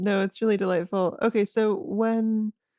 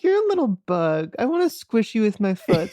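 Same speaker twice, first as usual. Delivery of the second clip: mock villainess; 2 semitones higher, 3 dB louder than usual. Co-host imitating Catherine taunting Ben, mock sneer. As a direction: sneer it like a mocking schemer. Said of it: "she's like".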